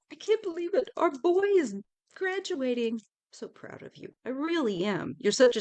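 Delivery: playful doting mother, overjoyed; proud mom gushing. Pretend. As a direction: gush like a mom at graduation.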